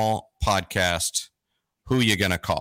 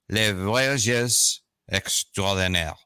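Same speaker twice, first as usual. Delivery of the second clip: slow, careful attempt at a French accent; poor French accent; slower than usual. Real, not acted. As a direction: sound out the French slowly, American-style. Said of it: "my French pronunciation is".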